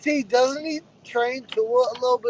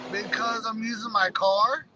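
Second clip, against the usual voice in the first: phone held away; 5 dB quieter, slower than usual. Real, not acted. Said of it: "it sounds like you're far away from the, the phone".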